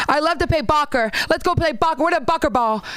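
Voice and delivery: put-on kid voice. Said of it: "he'd be like".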